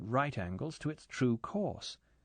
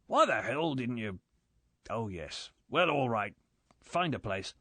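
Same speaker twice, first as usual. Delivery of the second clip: grumbling. A narrator's reading. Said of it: "He grumbled on".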